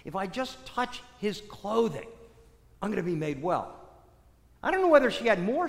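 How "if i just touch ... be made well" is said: softly, as if thinking to herself; hushed private resolve, voiced softly; inner thought. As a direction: voice a quiet thought to oneself. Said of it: "she thinks to herself".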